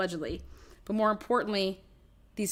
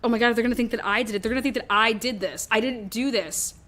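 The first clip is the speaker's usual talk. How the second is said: mock panic; 2 semitones higher, 4 dB louder than usual. Voicing Nicole panicking about suspicion.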